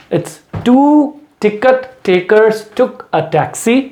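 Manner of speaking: very slow, T sounds punched out; slow tongue twister. Shown as a demonstration. Teacher slowly models a tongue twister for practice. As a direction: drag each word, hit every T. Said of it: "फिर मैं बोल रहा हूँ".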